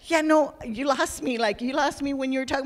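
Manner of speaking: high, loud words through a laugh. Real, not acted. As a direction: laugh while admitting confusion. Laughing while retelling her reply.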